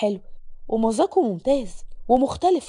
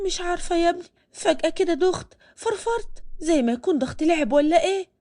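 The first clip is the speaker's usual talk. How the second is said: higher, feeble put-on tired voice; faking weakness; 5 semitones higher than usual. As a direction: play the fake-sick mother. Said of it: "كانت بتتصنع التعب". (تعب مصطنع بصوت أعلى وأضعف)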